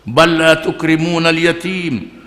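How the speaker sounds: slow, drawn-out Arabic chant; measured melodic recitation; Quran recitation. Acted. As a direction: intone the verse like tilawah. Quran verse recited in sermon.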